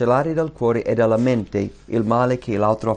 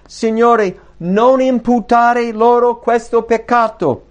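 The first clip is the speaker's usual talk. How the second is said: higher, louder, slow plea; crying out loud; 10 semitones higher, 6 dB louder, slower than usual. A narrator's reading. Preacher reading Stephen crying out to God, loud and high. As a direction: cry it out to the Lord as the stones fall. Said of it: "gridò ad alta voce".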